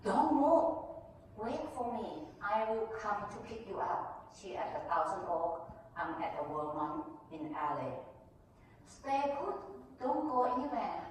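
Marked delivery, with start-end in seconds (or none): 0.0-4.3 high and loud, then easing; urgent order. Retold or imitated. Mother on the phone orders the nanny not to leave, loud and high. 8.8-11.0 insistent. Retold or imitated. Employer insisting on phone.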